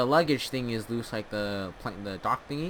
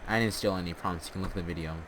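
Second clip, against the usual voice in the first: far from mic; 4 semitones lower, 4 dB quieter, faster than usual. Real, not acted. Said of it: "You sound horrible".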